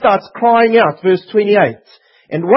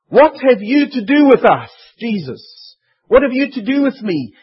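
panicking demons; 4 semitones higher than usual. Acted. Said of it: "these demons were panicking".

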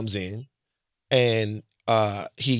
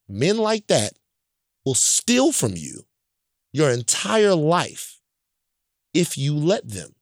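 very slow, weighing each word; slow earnest lesson; 2 semitones higher, slower than usual. Retold or imitated. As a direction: pass on a hard lesson to your son. Dad teaching son a lesson.

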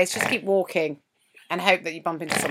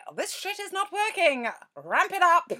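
mock exasperated; 10 semitones higher than usual. Imagined words to doctor.

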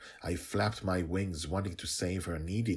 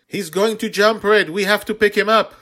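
very high, loud urgent call; urgent excited child; 15 dB louder than usual. A narrator's reading. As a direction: push the dragon to hurry. Girl urges rescue.

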